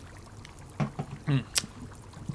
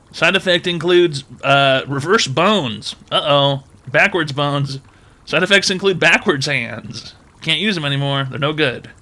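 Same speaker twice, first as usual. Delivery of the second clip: cheerful ad with eerie menace. Pretend. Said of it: "Cash App advertisement".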